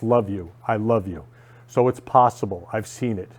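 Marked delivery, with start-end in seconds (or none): 0.0-1.2 softer, lower love you said gently; tender love you. Shown as a demonstration. Vlogger turning F you into love, softly and tenderly. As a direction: hand the words over softly as a gift.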